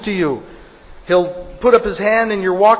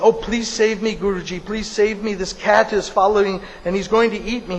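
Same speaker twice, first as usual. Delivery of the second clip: a hint of a frightened mouse begging; pleading mouse; 3 semitones higher than usual. Mouse begs the guru for rescue from a cat, mildly pleading.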